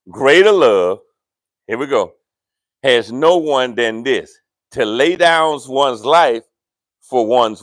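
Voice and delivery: scripture read slowly. Shown as a demonstration. Pastor reading John to church, slow. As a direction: draw out each phrase. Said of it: "I want you to read that slow".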